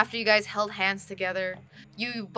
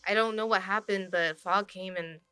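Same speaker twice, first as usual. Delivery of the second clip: subdued confession; 6 dB quieter than usual. Acted. Freed character thanks and confesses, subdued.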